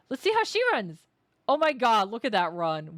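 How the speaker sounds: high, loud amused gasp; excited gasp. Real, not acted. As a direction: gasp and exclaim in delight. Gasps, laughs at the run.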